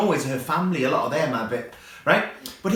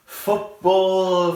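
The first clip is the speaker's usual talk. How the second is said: grand opening; 5 semitones higher, 6 dB louder than usual. Shown as a demonstration. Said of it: "dramatic repeated football".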